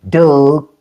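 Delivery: DOUG for dog, vowel as in "book"; Baltimore pronunciation. Shown as a demonstration. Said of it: "but that's Baltimore".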